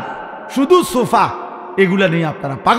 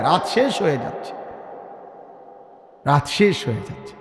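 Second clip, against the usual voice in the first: hushed urging; 3 semitones lower, 7 dB quieter than usual. Acted. Urging sleeper as night ends.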